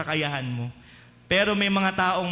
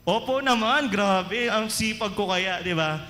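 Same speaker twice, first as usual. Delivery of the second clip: mock bragging; slower than usual. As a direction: answer like a show-off member. Churchgoer bragging reply.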